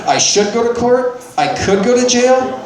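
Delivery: mildly stunned, pitch held up; mock disbelief. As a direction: repeat it back as if you can't believe it. Retelling his disbelief at the cop.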